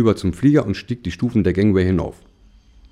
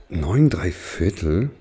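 puzzled; 4 semitones lower, much slower than usual. Acted. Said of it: "Komisch, hab ich gedacht".

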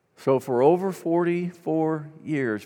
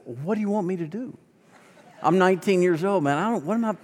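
higher-pitched, mock-helpless protest; flustered protest; 5 semitones higher than usual. Teenage pastor to a caller wanting help, flustered protest. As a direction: throw up your hands in retold bewilderment. Young pastor retelling his panicked reply.

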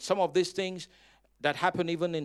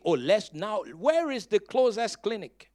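panicked man; 5 semitones higher, 10 dB louder than usual. Retold or imitated. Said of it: "The man was not panicking".

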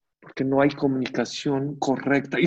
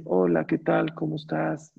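soft greeting; 2 semitones higher than usual. Shown as a demonstration. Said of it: "con un tono suave".

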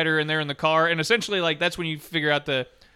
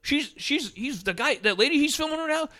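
mock dudes talking; 6 semitones higher than usual. Retelling guys in porn scene.

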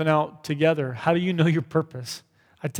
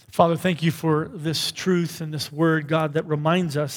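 prayer. Acted. Leads closing prayer.

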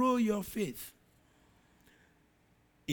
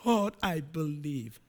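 tearful plea; 5 semitones lower, slower than usual. Acted. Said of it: "He cried, said".

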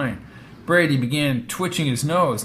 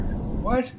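put-on old man voice; 10 semitones higher, 4 dB quieter than usual. Old driver's puzzled reply.

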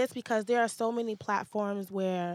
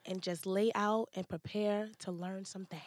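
soft whispered invitation; 3 semitones lower, 7 dB quieter than usual. Acted. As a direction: breathe it out quietly. Two hosts whispering.

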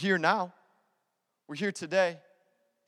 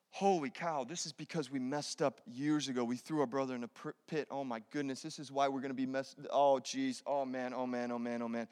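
panicked brothers; 8 semitones lower, 10 dB quieter than usual. Retold or imitated. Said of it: "they're there going".

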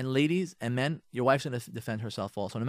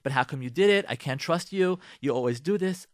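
pushing the issue; 2 semitones higher, 3 dB louder than usual. Shown as a demonstration. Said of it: "push the issue".

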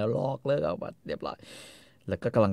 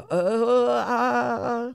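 grudging husband; 13 semitones higher, 3 dB louder than usual. Retold or imitated. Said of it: "ไอ้คาร์โลก็แบบว่า".

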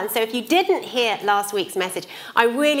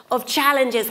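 talking with hair caught in mouth; words round a strand of hair; 3 dB louder than usual. Real, not acted. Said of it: "I've got hair in my mouth".

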